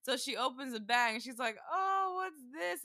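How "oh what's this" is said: high, slow gift-opening wonder; curious mom. Retold or imitated. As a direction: imitate a mom peeking into a present. Mom opens the gift bag.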